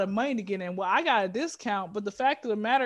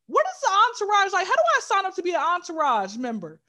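excited inner thought; 7 semitones higher, 4 dB louder than usual. Retold or imitated. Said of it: "I kept thinking to myself".

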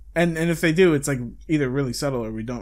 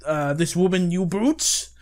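slow, raised voice of an outraged hero; hammed-up gallant protest; mock heroic cry; 4 semitones higher, slower than usual. Hero shouting at the thugs, mock outrage. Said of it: "He's like".

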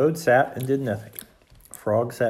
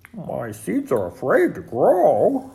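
slow, louder, rising disbelief; incredulous question; 4 semitones higher, 5 dB louder, slower than usual. A narrator's reading. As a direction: draw it out in amazement. Toad astonished by Frog's claim.

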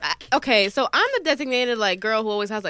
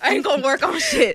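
laughing defiance; 4 semitones higher than usual. Real, not acted. Repeats line laughing defiantly.

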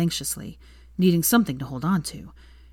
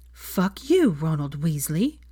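louder; slower than usual. A narrator's reading. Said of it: "Hermione repeated louder".

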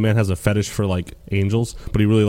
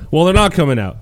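Nessie quote; 4 semitones higher, 3 dB louder than usual. Retold or imitated. Nessie voiced in retelling.

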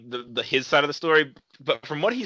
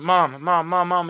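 put-on higher, insistent nagging kid; a lightly voiced pleading child; whiny kid; 5 semitones higher, 3 dB louder, slower than usual. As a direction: beg like a kid in a store, higher.

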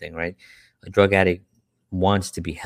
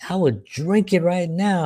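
much higher, slower boast; joking guy; 10 semitones higher than usual. Retold or imitated. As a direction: play the kid bragging to the laughing crowd. Joking guy at basketball court.

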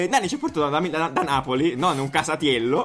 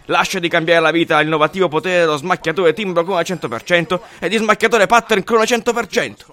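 infomercial. Acted. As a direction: sell it like a late-night ad host. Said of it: "George Mastrotman dall'altra parte per lo spot".

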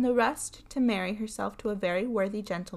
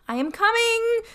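frightened wife; 14 semitones higher, 8 dB louder than usual. A narrator's reading. Terrified wife calling down.

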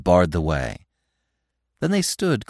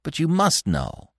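higher, slow, insistent plea; 6 semitones higher than usual. A narrator's reading. Bambi pressing Feline about love, insistent. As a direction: press her for an answer. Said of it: "Bambi insisted".

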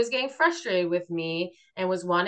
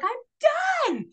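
fed up. Retold or imitated. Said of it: "And I was like".

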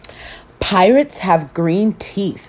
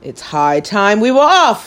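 pirate announcing; 4 semitones higher than usual. Acted. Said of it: "he announced".

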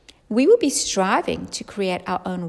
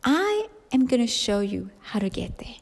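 soft unvoiced whisper; 6 dB quieter than usual. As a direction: whisper the promise. Jesus's promise, hushed.

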